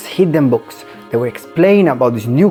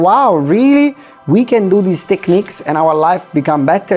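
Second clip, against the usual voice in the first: amazed; 4 semitones higher than usual. Acted. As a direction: sound blown away by the discovery. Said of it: "It's like".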